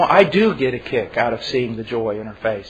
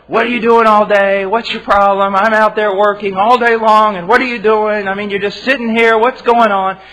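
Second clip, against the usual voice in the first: loud, higher, demanding yell; angry husband yelling; 6 semitones higher, 7 dB louder than usual. Acted. Husband yelling at his wife about the messy house, loud and angry. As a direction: bark it out like a tired husband come home.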